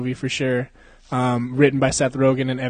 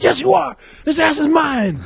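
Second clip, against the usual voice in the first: much higher, louder teasing squeal; mock bratty taunt; 13 semitones higher, 6 dB louder than usual. Movie character taunting his friend, high mock squeal.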